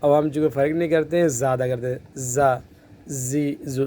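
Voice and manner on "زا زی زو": زا with teeth closed and a buzzing z; غلط تلفظ; common wrong z. Shown as a demonstration. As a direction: say زا زی زو like an ordinary z, the wrong way. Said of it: "دونوں دانت بند ہو جائیں گے".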